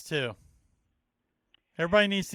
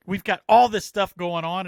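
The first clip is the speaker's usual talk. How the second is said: alarmed; 4 semitones higher, 9 dB louder than usual. Retold or imitated. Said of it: "I'm like".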